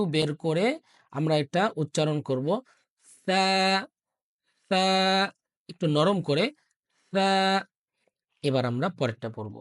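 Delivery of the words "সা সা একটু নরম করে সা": সা with the tongue tip out, a soft th sound; soft tha. Shown as a demonstration. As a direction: say সা softly with the tongue between the teeth. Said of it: "soft বা নরম করে পড়তে হবে".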